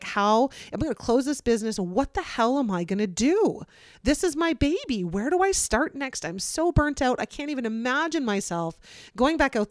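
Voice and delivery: mildly frantic, pitch climbing as it goes; retold desperation. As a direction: replay your own overwhelmed inner plea. Retells own despair at closing business.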